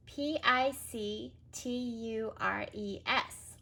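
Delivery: P I C T U R E S letter by letter; careful spelling; spelled out. Shown as a demonstration. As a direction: spell each letter slowly.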